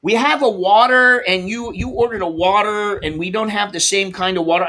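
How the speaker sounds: mock clerk voice. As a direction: mimic the clerk fumbling over the order. Store calls about a water substitute.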